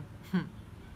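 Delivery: a quiet breathy laugh, moved; soft emotional laugh. Real, not acted. Sharing her healing with viewers, a soft moved laugh. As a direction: let a small laugh slip as emotion rises. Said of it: "I'm getting emotional".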